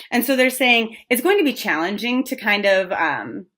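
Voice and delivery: talking around a fuzz in the mouth; something in mouth. Real, not acted. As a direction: speak with a bit of fluff on the tongue. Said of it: "I have a fuzzy in my mouth".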